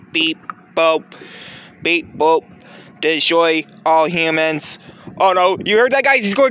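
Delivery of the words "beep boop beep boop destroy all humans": slow, steady robot threat; menacing robot. Acted. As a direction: drone it out like a killer machine. Robot turns evil.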